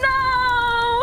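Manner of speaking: high, loud wail of no; anguished cry. Real, not acted. Seeing her character burned, loud wailing no.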